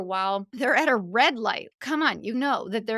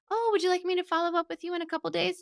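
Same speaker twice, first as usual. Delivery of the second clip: higher, fast, hesitant offer to follow up; mock unsure ask; 7 semitones higher, faster than usual. Wedding pro meekly asking couple about follow-up, unsure. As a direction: sound timid and eager to please. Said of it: "that's not confident".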